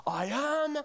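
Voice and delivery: high, slow, far-off madman proclaiming; hammed-up deluded king shout; madman screaming. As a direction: mock-scream like a deluded man on a chair. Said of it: "he's screaming at the top of his lungs".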